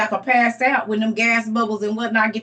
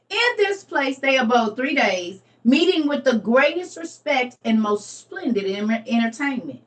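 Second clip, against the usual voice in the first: scripture reading. Acted. To the viewers, reading the story of the holy family aloud. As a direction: read the passage with care.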